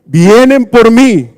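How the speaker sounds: slow, high declaration; bold Peter. Retold or imitated. Peter telling Jesus to let them take him, slow and high. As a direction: slowly promise to take his place. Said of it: "Y todavía le dice".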